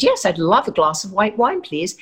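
put-on crisp English accent, polite request; light English accent ordering wine. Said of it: "What's with that phony English accent".

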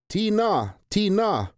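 high, loud calls of her name; calling out. A narrator's reading. Albert calling out to Tina from the next cage. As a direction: call her back from far away.

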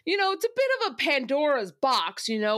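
lightly mocking know-it-all impression; Drew. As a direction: pontificate like a self-important contestant, lightly sent up. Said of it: "I literally did this version of him".

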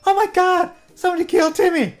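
high, loud cartoon kid wail; cartoon kid cry. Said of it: "and we're all gonna say".

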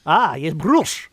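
slow, hammed-up German accent on broosh; mock German accent. Playing up the German accent his co-host heard, slow mock German. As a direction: lean into a joke German voice, drawn out. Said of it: "like a German man".

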